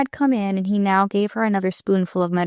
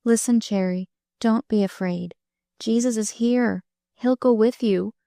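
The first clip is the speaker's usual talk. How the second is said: soothing; 2 semitones higher than usual. Acted. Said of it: "speaking in a soothing voice".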